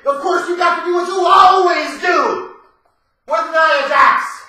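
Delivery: loud sarcastic complaint; exasperated shout. Real, not acted. Complaining to viewers about Nia Jax booking, exasperated shout. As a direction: throw up your hands and yell it.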